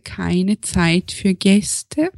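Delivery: slow Viennese accent, lightly done. Shown as a demonstration. Still doing the Viennese accent for the podcast. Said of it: "Komm, mach's".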